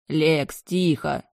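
wary warning. Acted. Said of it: "насторожился брат".

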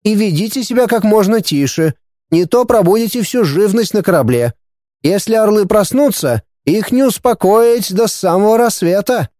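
sultry voice. A narrator's reading. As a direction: keep the languid warning going. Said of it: "томным голосом предупредил мистер Вингли".

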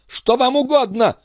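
high-pitched, irritated demand; impatient cry. A narrator's reading. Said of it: "в нетерпении вскричала королева". (нетерпеливый высокий окрик)

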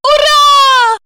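high, loud joyful shout; joyful cry. Acted. Sasha, going home, shouting with joy. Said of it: "воскликнула Александра".

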